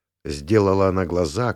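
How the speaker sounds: usual speaking voice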